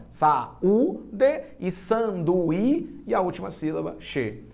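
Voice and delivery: "Sa, u, d" each set apart; syllable by syllable. Shown as a demonstration. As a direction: slowly separate the syllables of "sanduí" and "che". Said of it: "porque eles ficam sozinhos".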